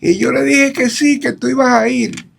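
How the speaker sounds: imitating his father. Son recalls father begging him to attend, high pleading imitation. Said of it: "Mi papá, el Misier".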